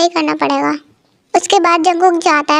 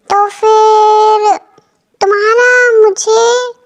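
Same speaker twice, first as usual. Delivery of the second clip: menacing pause; 3 semitones higher, 3 dB louder, much slower than usual. Acted. Mafia hero hints at threat.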